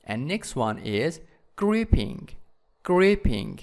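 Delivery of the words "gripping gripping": "gripping" punched on GRIP; stress on first syllable. Shown as a demonstration. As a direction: hit the first syllable of "gripping", then let it fall. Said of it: "in the first syllable".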